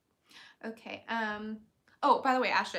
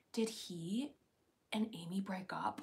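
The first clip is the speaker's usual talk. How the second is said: worried whisper; 3 semitones lower, 5 dB quieter than usual. Retold or imitated. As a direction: whisper the fear. Retold worried thought.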